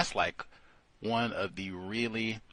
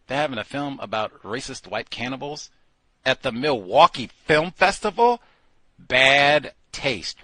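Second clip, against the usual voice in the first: clowning; 2 semitones higher, 8 dB louder than usual. Pretend. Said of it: "pause and clown and say".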